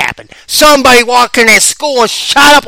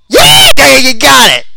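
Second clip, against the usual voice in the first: high, loud cheering yeah; excited yelling yeah yeah; 6 semitones higher, 5 dB louder, much slower than usual. Real, not acted. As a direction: cheer her on, thrilled. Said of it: "I got excited".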